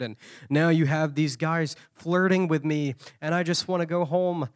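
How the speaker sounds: whiny complaint to God. Retold or imitated.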